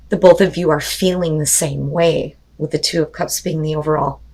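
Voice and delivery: strained, tired voice; losing voice. Real, not acted. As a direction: talk on a fading voice. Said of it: "I'm, like, losing my voice".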